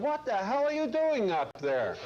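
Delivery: calling up the ladder in surprise; yelled up. Retold or imitated. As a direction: shout up to someone high above. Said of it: "And he yelled up to him".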